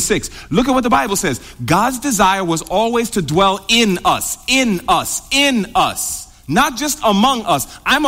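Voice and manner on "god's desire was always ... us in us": "in us" repeated, each time set apart and weighted; stress on "in us". Real, not acted. Preacher on God's desire to dwell, "in" stressed and drawn out each time. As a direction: lean on "in" in every "in us".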